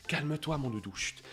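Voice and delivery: doux et bas, comme à un chiot apeuré; rassurer le chien. Retold or imitated. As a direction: chuchote presque pour calmer le chien. Maître rassure son chien accroupi. (voix douce et rassurante pour le chien)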